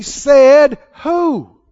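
loud, sharp said who; challenging shout. Real, not acted. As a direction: throw the challenge back at them. Preacher challenges rebuke.

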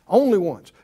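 ordinary delivery

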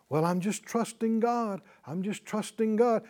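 mild mock piety; mimicked pious platitude. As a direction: imitate someone reciting an empty religious phrase. Mimicking empty religious talk.

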